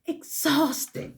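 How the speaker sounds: high, slow, drained; high slow weary voicing; high weary sigh. Real, not acted. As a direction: let it float up tired and slow. Word voiced high and weary.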